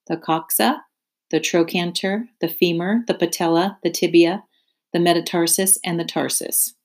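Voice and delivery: spider's steady listing voice, each name lifted at the end; name each part calmly, like a lesson; Charlotte listing leg parts. Acted. Charlotte teaching Wilbur her leg parts, measured listing. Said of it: "Say those names again".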